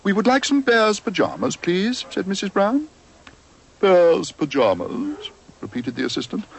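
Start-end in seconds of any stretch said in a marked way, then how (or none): 0.0-2.1 a hint of a prim mother, pitched up; polite, proper lady asking a shop assistant; lightly voiced polite mother; lightly voiced Mrs Brown. 3.8-5.3 slow, high, disbelieving shop assistant; snooty assistant repeating slowly; incredulous shop assistant. Acted.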